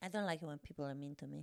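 sheepish giggling admission; laughing confession. Real, not acted. Mock-pouty confession.

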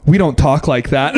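imitating a dead-serious objection; deadpan. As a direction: say it deadpan, as an offended correction. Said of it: "deadpan, dead serious".

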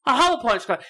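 high, affronted Cockney echo; Cockney accent. Acted. Alien scoffing at the cloud explanation, high Cockney. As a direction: repeat it as an offended Cockney alien. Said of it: "came down and had a Cockney accent".

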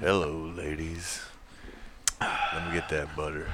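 low slow country crooner; a country singer. Pretend. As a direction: purr it like an old country crooner. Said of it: "a country singer".

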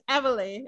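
"Emily", the mistaken form of Amelia; mistaken name pronunciation. Shown as a demonstration. Interviewer admits misreading co-star's name, mistaken "Emily". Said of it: "all this time I thought it was".

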